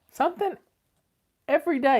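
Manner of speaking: hiccuping mid-sentence; words broken by hiccups. Real, not acted. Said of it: "Excuse me, I got the hiccups".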